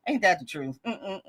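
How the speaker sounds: lightly voiced TikTok catchphrase; TikTok character. Host in the TikTok voice after a viewer's answer, lightly done. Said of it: "I just sounded like this TikTok character".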